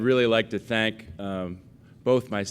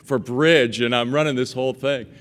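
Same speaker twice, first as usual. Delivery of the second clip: mom voice; 5 semitones higher, 4 dB louder than usual. Retold or imitated. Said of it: "She goes".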